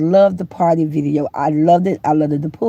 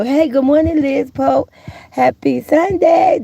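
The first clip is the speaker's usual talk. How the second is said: sing-song greeting; 5 semitones higher than usual. Real, not acted. Greeting viewer by name.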